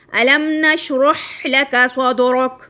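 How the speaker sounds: الم نشرح لک صدرک recited slowly, الم joined as one word; Quranic recitation. Shown as a demonstration. Teacher recites Surah Sharh to students, slow and melodic. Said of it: "جیسے سورۃ شرح کے اندر ہے".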